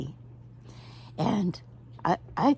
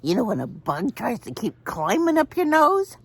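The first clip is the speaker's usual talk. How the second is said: laughing while talking; 11 semitones higher than usual. Real, not acted. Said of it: "I couldn't".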